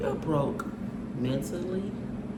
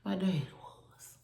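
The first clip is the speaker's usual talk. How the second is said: whispered aside; 3 semitones higher, 3 dB quieter, slower than usual. Real, not acted. Admitting her father hurt her first, whispered aside. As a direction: say it under your breath.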